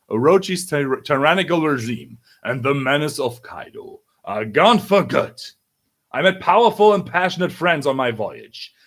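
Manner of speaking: declamatory, emphatic speech to a crowd; victory proclamation. Acted. Leader announcing the tyrants' defeat to the people, proud proclamation. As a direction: proclaim it, punching the names.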